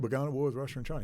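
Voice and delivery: fast, tossed-off quote of a general; a fast retold quote of a general; quick quote. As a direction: rattle it off quickly. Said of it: "Milley's already said".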